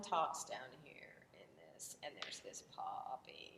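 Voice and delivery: very quiet, breathy, low, creaky popping vocal fry. Explaining what vocal fry is, the speaker demonstrates it: vocal fry demonstration. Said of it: "vocal fry is when someone".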